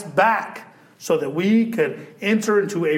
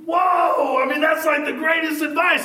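mock amazement; 9 semitones higher than usual.

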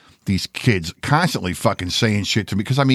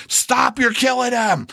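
mock girl's plea; 13 semitones higher, slower than usual. Girl pulling him off fight.

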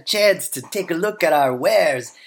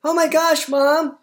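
put-on high, whiny child pleading; super whiny kid voice; 11 semitones higher than usual. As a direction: whine like a kid wanting a stop. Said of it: "aren't I convincing with my super whiny voice".

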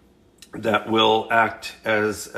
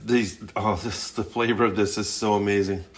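talking through a mouthful of food; words round a bite of chicken; mouth full. Real, not acted. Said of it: "sorry, I'm talking with my mouth full".

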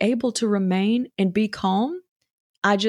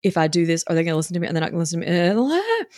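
panicky worry; 2 semitones lower, faster than usual. Retold or imitated. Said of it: "I would just be emotionally flooded".

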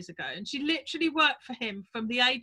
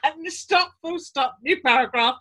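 slow dictation with punctuation; 2 semitones higher, 7 dB louder than usual. Retold or imitated. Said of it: "I love that".

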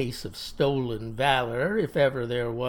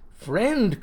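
raised voice with a falling "Friend,"; bitter cry; 6 semitones higher than usual. Acted. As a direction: cry out "Friend," with the pitch dropping at the end. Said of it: "cries he".

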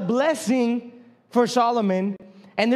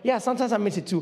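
laughing surprise; 3 dB quieter than usual. Retold or imitated. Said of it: "I was like".

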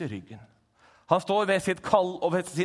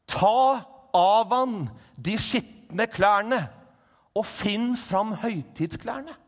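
higher, louder, very slow commanding voice; voice of God; 6 semitones higher, 8 dB louder, much slower than usual. Acted. God ordering Josva's clothes changed, slow and commanding. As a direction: proclaim it like a divine order. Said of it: "og den sier".

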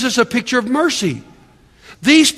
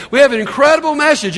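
more energetic repeat; 5 semitones higher, faster than usual. Shown as a demonstration. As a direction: say it again with real fire. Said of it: "Boy, you guys are pretty sad".

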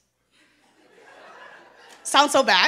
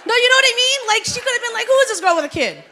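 laughing; 11 semitones higher, 9 dB louder, much faster than usual. Real, not acted. Laughs while imitating mother-in-law.

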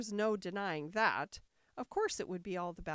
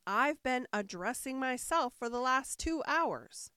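a hint of a fretful old queen, higher; 5 semitones higher, 5 dB louder than usual. A narrator's reading. White Queen complaining to Alice, lightly fretful. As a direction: whine it lightly.

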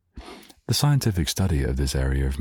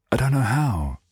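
much higher, a timid squeak; high unsure voice; 10 semitones higher than usual. Retold or imitated. Viewer answering Vin Diesel, timid and much higher. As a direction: squeak it out helplessly. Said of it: "you're like".

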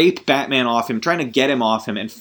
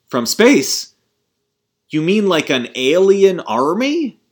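Mindhunter quote; 6 semitones higher, 4 dB louder, slower than usual. Retold or imitated. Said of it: "And then Mindhunter goes".

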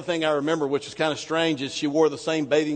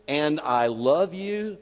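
tender; 3 semitones lower, slower than usual. Shown as a demonstration. Reading God's promise tenderly, slowly. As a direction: let the words land gently. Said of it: "Stop. Stop".

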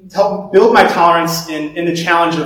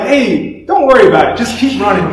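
higher, laughing imitation of an easygoing friend; mock breezy reply, laughter creeping in; breezy buddy; 4 semitones higher, 4 dB louder than usual. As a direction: play the unbothered friend, chuckling through it.

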